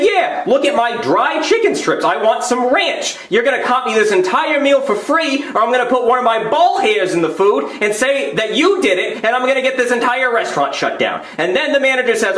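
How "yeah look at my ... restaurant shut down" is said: high-pitched, indignant tirade; outraged diner demanding satisfaction; angry customer. Acted. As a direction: rant threats at the manager. Acted angry complaint to manager.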